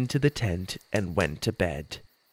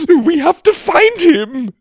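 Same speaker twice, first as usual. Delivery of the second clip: much higher, louder, slower cry; desperate Ma; 10 dB louder, slower than usual. A narrator's reading. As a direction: plead it frantically.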